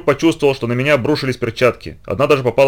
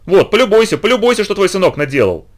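indignant shout; 9 semitones higher than usual. Acted. Wife angrily shows her husband what his son did. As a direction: shove the proof at him, outraged.

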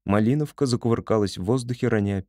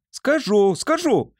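very high, loud, stubborn squeal; defiant shriek; 12 semitones higher, 4 dB louder, slower than usual. A narrator's reading. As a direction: shriek it back, refusing to stop. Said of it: "не унималась Поня". (упрямо визжит)

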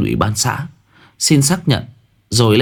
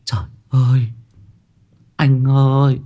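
anguished wailing; 9 semitones higher than usual. A narrator's reading. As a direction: cry out to a dead brother in grief. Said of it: "Cô Trà đọc bảng thông tin mà ngã khuỵu".

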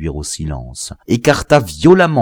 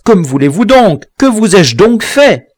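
loud, much higher, wailing question; a terrified victim begging; lamentable plea; 13 semitones higher, 8 dB louder than usual. A narrator's reading. The victim pleads with his killer, high and wailing. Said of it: "en criant d'une voix lamentable".

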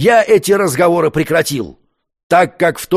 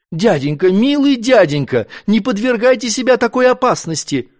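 rising, higher pleading; 6 semitones higher than usual. A narrator's reading. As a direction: beg her uncle tenderly. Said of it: "просила".

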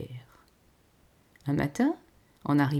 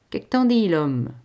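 peasant wife asking; 9 dB louder than usual. A narrator's reading. Wife asking her husband about the money, loud country voice. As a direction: nudge your man for his verdict.

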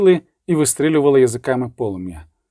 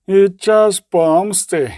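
slow, menacing, spitting out the words; a mild, drawn-out threat; slowly and spitefully; angry voice; 6 semitones higher, 4 dB louder, much slower than usual. A narrator's reading. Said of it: "додала злим голосом".

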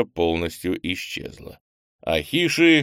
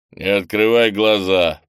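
commanding; 6 dB louder than usual. Acted. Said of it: "приказал Крис".

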